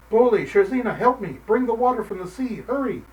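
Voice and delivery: put-on old man shouting as his roof burns; shouting for help. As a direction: yell for help at the burning house. House burning, calling for help.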